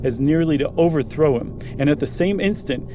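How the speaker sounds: measured, hushed storytelling read; story narration. A narrator's reading. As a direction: draw listeners into the dark tale. Reads the ghost story aloud.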